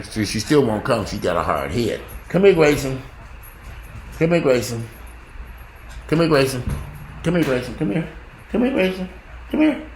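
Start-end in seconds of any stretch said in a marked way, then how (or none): 2.3-9.9 calling the dog. Real, not acted. Owner calling her dog out of the yard, rising calls. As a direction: call the dog, pitching up each try.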